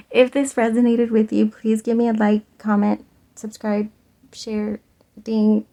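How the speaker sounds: rattling off the list like a robot voice. Real, not acted. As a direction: mechanical robot-voice checklist. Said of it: "Sorry, I sounded like a robot".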